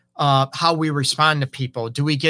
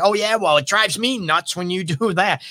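a higher, mock-defensive retort; snippy comeback; 4 semitones higher than usual. Partner throws the complaint right back, mildly snippy and defensive. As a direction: fire it back like a tit for tat.

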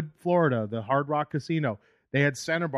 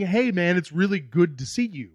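sincere greeting; 4 semitones higher, 4 dB louder than usual. Retold or imitated. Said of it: "that's me saying".

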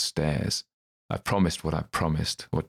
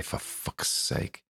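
whispered, slow exasperation; exasperated; 5 dB quieter, much slower than usual. Acted. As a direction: breathe it out in defeat. Adam exasperated, lost for words.

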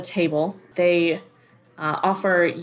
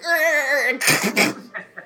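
imitated bone creak; 7 semitones higher than usual. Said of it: "let out this loud, like".

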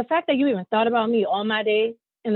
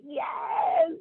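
high cry of "Yes" at the wedding; excited yes; 6 semitones higher, 5 dB quieter than usual. Retold or imitated. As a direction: yelp it like seeing yourself a bombshell. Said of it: "And I was like".

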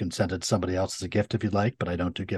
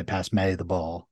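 put-on Connecticut accent; slower than usual. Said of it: "And so I'd say".

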